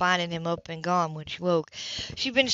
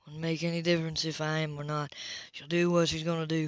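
the speaker's voice; 3 semitones lower, 4 dB quieter than usual. Acted. The speaker stays calm.

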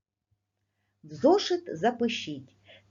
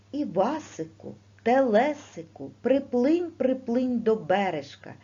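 mother calling from the fairy tale; 4 semitones higher, 4 dB louder than usual. Retold or imitated. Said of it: "ці слова говорила матінка".

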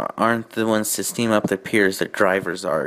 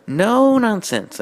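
high, slow, commanding no-nonsense; drawn-out stern warning; stern threat; 12 semitones higher, 4 dB louder, slower than usual. Acted. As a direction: lay down the law. Twilight threatening trucks.

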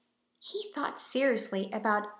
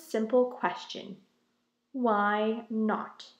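loud, booming royal speech; regal proclamation; 3 semitones higher, 6 dB louder than usual. Acted. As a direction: address the colony like a king. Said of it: "cleared his throat and proclaimed".

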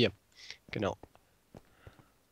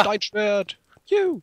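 much higher, loud joyful cheer; excited cheer; 9 semitones higher, 5 dB louder, slower than usual. Real, not acted. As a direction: cheer like you won. Finding a stone sword. (freudiger Jubel)

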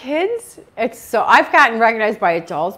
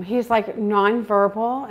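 ordinary talk, nothing marked

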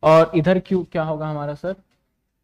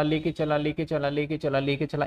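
softer, even, unbroken repeated loop; running repetition; 3 semitones lower, 5 dB quieter than usual. Acted. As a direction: repeat it softly like a truck rolling on. Repeats phrase to mimic truck travelling. (लगातार, धीमी आवाज़ में एकसार दोहराव)

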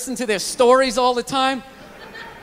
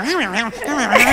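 droning chatter fading off. Retold or imitated. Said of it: "it starts fading off".

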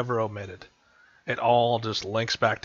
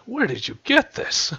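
high, surprised orc shout; the orc blurts it out, caught off guard; 12 semitones higher, 4 dB louder than usual. Acted. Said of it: "he's taken by surprise".

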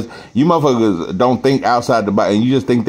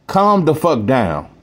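a rapper's voice; 2 semitones higher, slower than usual. Pretend. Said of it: "in my motherfucking rapper voice".

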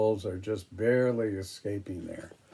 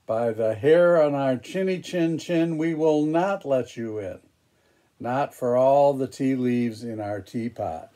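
defiant little wolves; 3 semitones higher, 5 dB louder than usual. Acted. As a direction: stand firm against the pig. Wolves defy the pig.

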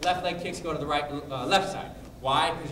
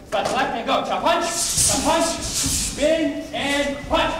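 loud, high drill-call counting; shouting commands to the whole class; 10 semitones higher, 8 dB louder, much slower than usual. Real, not acted. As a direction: bark the combo out to the class. Instructor calling count to class.

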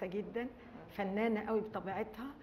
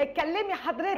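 excited laughing invite; 7 semitones higher, 7 dB louder than usual. Real, not acted. Urging caller, laughing.

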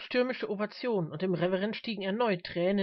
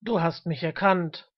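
mighty voice; 7 dB louder than usual. A narrator's reading. Old man addressing the preacher, powerful loud voice. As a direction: call it out with immense authority. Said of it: "rief der alte Mann mit ungeheuer machtvoller Stimme".

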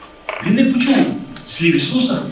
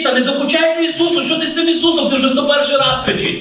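higher-pitched, exasperated telling-off; annoyed scolding; 5 semitones higher than usual. Acted. Crowd around Jesus scolding a shouting blind man, annoyed. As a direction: scold him for pestering. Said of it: "сварилися на нього".

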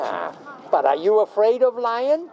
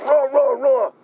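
dog roar; 3 semitones higher, 4 dB louder than usual. Retold or imitated. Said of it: "if the dog still going".

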